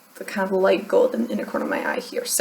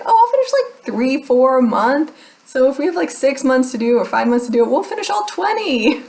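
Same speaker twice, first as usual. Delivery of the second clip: overconfident thought; 4 semitones higher than usual. Retold or imitated.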